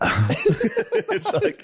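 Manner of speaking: high, squeaky mock voice; hammed-up high imitation. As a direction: mimic him with a high laugh. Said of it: "you'll be like".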